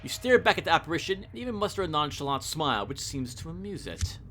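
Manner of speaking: measured, suspenseful reading; story narration. A narrator's reading. Revealing the specter across the chessboard, story narration. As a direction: pause before the reveal. Reads the game's story text.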